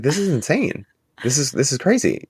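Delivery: incredulous protest. Retold or imitated. Retells own protest to park staff.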